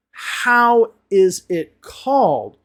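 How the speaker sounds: HOW, IS, IT, CALLED spaced out slowly and firmly; incorrect example. Shown as a demonstration. Teacher showing learners an incorrect question, spelled out slowly. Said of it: "That's incorrect because we're asking".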